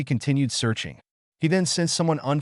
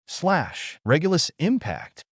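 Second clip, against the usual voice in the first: high, raised attack shout; battle cry; 7 semitones higher, slower than usual. A narrator's reading. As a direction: call out the attack name. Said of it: "Loke exclaimed".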